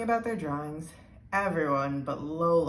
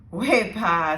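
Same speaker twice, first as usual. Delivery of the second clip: cheerful exclamation; 6 dB louder than usual. A narrator's reading. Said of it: "said Jonathan, laughing".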